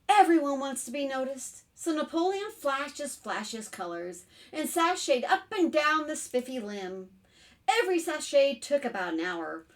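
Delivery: lively picture-book reading; story narration. A narrator's reading. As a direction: tell it expressively to small children. Reads picture book aloud.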